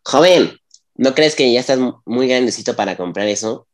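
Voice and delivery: lightly voiced nosy older woman; gossipy lady voice. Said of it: "vamos a hacer voz de señora chismosa".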